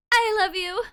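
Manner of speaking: a hint of a dozy lover; sleepy sweet girlfriend. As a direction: coo it drowsily. Sleepy girlfriend character speaking.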